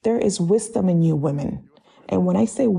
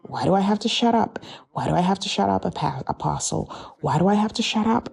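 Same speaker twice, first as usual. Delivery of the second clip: whiny demon; faster than usual. Retold or imitated. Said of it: "they begin to say".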